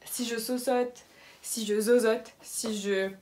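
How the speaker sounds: lisping through a retainer; talking around a mouthguard; wearing a retainer. Real, not acted. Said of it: "c'est ma gouttière".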